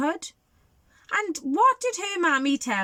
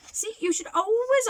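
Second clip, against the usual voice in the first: teacher emphasis; 12 semitones higher than usual. Acted. Teacher's moral to children.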